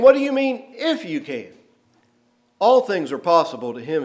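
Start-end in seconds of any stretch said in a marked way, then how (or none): 0.0-1.5 incredulous. Retold or imitated. Jesus challenging the doubting father, incredulous. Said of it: "interjects with an exclamation".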